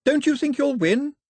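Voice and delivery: high, loud taunting question; shouting. A narrator's reading. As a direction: shout the dare above the hubbub. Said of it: "Daphne shouted above the hubbub".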